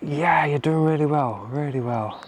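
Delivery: breathless after climbing stairs; winded, catching breath between words. Real, not acted. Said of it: "I'm still out of breath climbing up those stairs".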